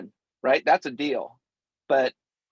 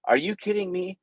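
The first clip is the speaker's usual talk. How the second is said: higher-pitched retold disbelief; incredulous reaction; 6 semitones higher than usual. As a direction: react as if you can't believe the price. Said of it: "and I'm going".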